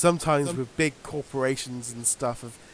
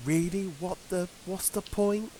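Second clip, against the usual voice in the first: incredulous; 5 semitones higher, 5 dB quieter than usual. Retold or imitated. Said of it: "you're just going".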